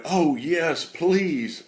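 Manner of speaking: eager high gasp of yes please; a thrilled woman jumping at the offer; excited. Retold or imitated. A delighted woman answering the preacher, excited.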